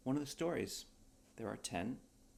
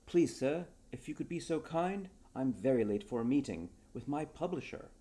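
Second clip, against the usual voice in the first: higher, louder pleading plea; 5 semitones higher, 6 dB louder than usual. Acted. Johnson pleading with Perez to help, higher and louder. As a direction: beg him politely, higher and louder. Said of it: "pleaded Johnson".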